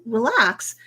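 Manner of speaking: calming whisper to settle her down; whispered relax. Retold or imitated. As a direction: hush her gently, under your breath. Blonsky calming Jen down.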